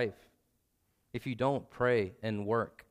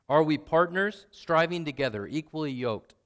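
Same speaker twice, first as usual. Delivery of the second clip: preaching emphasis; 3 semitones higher, 5 dB louder than usual. Real, not acted. Preacher presses the point.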